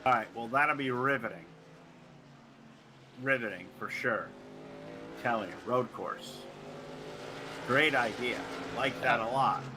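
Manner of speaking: low, deadpan fake enthusiasm; sarcastically unexcited. Real, not acted. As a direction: praise it with obviously no excitement. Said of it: "Oh, you sound so excited".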